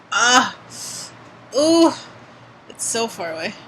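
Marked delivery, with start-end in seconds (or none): 1.6-1.9 pained ooh. Real, not acted. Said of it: "that just hurt to do".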